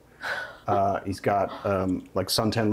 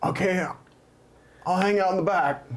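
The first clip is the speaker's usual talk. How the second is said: lightly voiced, higher lost guy; hint of an out-of-place dude; 5 semitones higher than usual. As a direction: meekly go along, pitched up. GM voices lost water slide guy.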